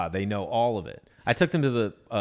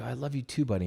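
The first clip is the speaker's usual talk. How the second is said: tender dad; 7 dB quieter than usual. Retold or imitated. Dad's tender reply, retold.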